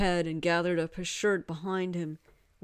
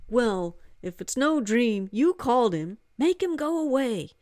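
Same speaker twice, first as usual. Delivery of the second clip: a hint of an exasperated woman, a bit louder; lightly voiced annoyed woman; 6 semitones higher, 4 dB louder than usual. Marjorie telling Hari to send the god away, lightly exasperated. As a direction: demand it, lightly voiced and cross.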